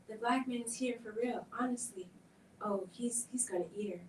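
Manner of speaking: breathless scared whisper; frightened whisper. Acted. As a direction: whisper it so the monster won't hear. Children hushed in fear.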